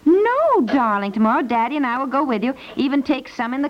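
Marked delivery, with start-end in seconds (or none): 0.0-0.6 sharp, high, loud no; jolted into a high, loud no; startled no. Acted. Mother startled by daughter's answer.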